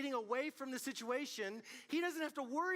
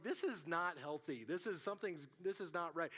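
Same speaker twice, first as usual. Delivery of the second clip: calm inner voice; 5 semitones lower than usual. Retold or imitated. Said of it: "I was like".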